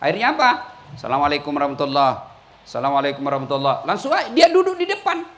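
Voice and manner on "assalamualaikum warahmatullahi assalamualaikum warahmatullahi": rushed, low mumbled greeting; mock hurried salam. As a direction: gabble the salam low and fast. (salam tergesa-gesa diejek)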